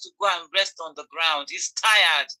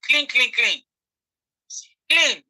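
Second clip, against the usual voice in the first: emphatic; 3 semitones higher, 4 dB louder, slower than usual. Real, not acted. Emphatic listing.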